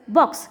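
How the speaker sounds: "बॉक्स" with a short, quick O; quick short vowel. Shown as a demonstration. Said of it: "कितनी जल्दी से बोलते हैं हम ये". ("बॉक्स" में छोटा ओ, जल्दी से)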